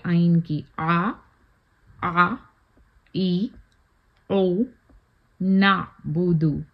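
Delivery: आ ई ओ with a squeezed mid-throat आइन, नाबुदु slow; ain drill. Shown as a demonstration. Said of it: "आइन की practice है ये".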